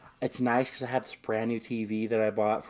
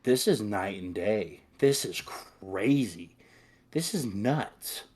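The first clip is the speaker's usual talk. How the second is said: slow amazed; slower than usual. Retold or imitated. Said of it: "And I'm like".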